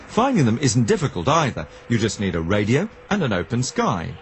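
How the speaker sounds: scripted presenter read with wide pitch swings; documentary narration. A narrator's reading. Presenter introduces number stations to radio listeners, documentary narration. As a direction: lift and drop the key words for the listener.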